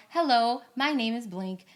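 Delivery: lightly polite phone-agent read; customer service script. Shown as a demonstration. Host to guest, lightly modeling a phone script. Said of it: "let's just do a script".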